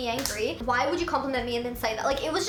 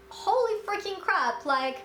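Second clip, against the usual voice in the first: stunned disbelief; 5 semitones higher, slower than usual. Retold or imitated. After he drives off, shocked.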